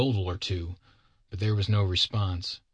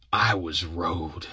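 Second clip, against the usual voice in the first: slow, drawn-out complaint; aggrieved Bill; 3 semitones lower, much slower than usual. Acted. Bill tells Sam of his ordeal, slow and aggrieved. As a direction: stretch out each word of the grievance.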